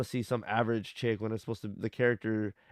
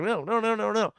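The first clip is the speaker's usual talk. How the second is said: thick Southern drawl mock; 11 semitones higher, 5 dB louder than usual. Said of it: "They talk like".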